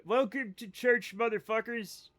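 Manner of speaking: slow, hammed-up preacher greeting; mock pastor greeting the congregation slowly; mock preacher welcome. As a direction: boom it like a pastor. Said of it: "No, that's not it".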